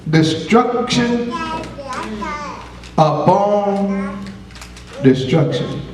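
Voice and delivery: slow, drawn-out scripture reading; portentous reading. Real, not acted. Preacher asks "you ready?" and reads the verse, portentous.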